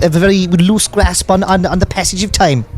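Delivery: high, breezy put-on voice; celebrity impression. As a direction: play a celebrity on a date. Celebrity date sketch roleplay.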